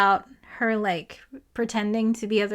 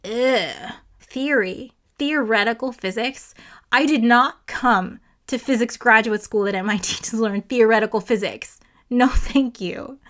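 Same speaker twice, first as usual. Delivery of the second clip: whiny scoffing grad student; 3 dB louder than usual. Retold or imitated. Grad student scoffing at the lecture, mock disdainful whine. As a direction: sneer at the lecture topic like a bored student. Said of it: "and he's just like".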